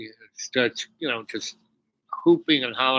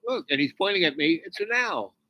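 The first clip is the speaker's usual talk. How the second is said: higher amazed call; excited call; 4 semitones higher than usual. Retold or imitated. Retelling Indian's call again.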